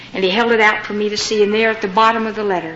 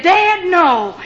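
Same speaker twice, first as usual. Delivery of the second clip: high, exclaimed protest; mock-horrified refusal; retold alarmed refusal; 7 semitones higher, 3 dB louder than usual. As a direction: protest it with a pitched-up cry. She refuses father's wish to meet.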